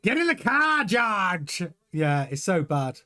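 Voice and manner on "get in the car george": Toto. Acted. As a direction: holler an order in a clumsy put-on accent. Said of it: "Oh, Toto impression".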